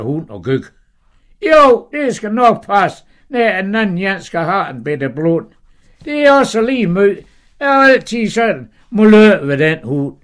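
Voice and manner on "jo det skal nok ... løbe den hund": high, loud scolding wife; Sara's high voice. Acted. Wife scolding her dozing husband, high and loud. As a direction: nag him in a high, sharp wife's voice.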